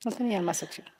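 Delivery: repeating to the interviewer, trailing off quietly. Real, not acted. Repeats line, second softer.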